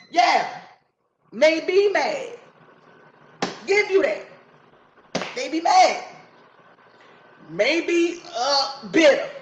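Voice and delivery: high, loud, slow heated rant; heated outburst. Real, not acted. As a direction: let the frustration boil over.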